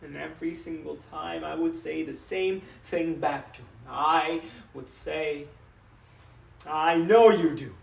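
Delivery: halting, regretful papa; a father haltingly confessing what went unsaid; understated rueful monologue. Acted.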